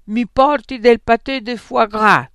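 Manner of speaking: big, loud, booming demand; thundering order. A narrator's reading. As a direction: thunder it at the waiter. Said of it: "tuonò".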